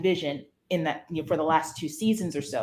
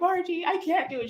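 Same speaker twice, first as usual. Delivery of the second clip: mock crying; 10 semitones higher than usual. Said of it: "crying my eyes out".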